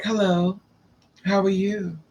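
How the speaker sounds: a hint of a ladylike man; lightly voiced flowery greeting. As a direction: lightly imitate a dainty, effeminate hello. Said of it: "must have been throwing flowers and lilies".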